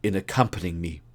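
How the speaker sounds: lightly voiced keen detective; Holmes voice. Holmes voiced in read story.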